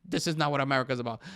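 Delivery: just read his words back, deadpan; quoting the president, mock-flat. Podcaster quotes the president's verdict, flat and mocking. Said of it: "Well, he said".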